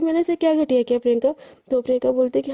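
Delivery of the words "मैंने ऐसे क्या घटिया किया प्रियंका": quick, mildly angry comeback; a touch of hurt anger, fast; angry retort. Acted. Garima snapping back at Priyanka's insult, mildly angry and quick. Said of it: "एकदम गुस्से में देखती है और बोलती है".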